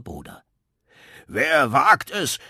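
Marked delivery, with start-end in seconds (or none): 1.2-2.4 sehr laut, langsam und höher gebrüllt; Brüllen. Acted. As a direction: donnere wie ein empörter Hausherr. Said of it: "fing er an zu brüllen". (Trondhelm brüllt die Störer an der Tür an)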